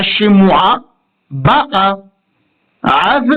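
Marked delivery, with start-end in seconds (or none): 1.3-2.0 ba'a with the weight on ba; BA'a, first syllable stressed. Shown as a demonstration. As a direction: hit the ba of ba'a. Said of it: "cette syllabe-là qui sera désormais accentuée".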